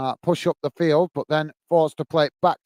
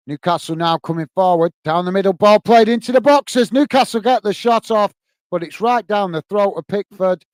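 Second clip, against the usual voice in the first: rising, louder play-by-play as the shot comes; louder excited match call; excited commentary; 2 semitones higher, 6 dB louder than usual. Real, not acted. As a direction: call the attack with building excitement. Live commentary, shot on goal.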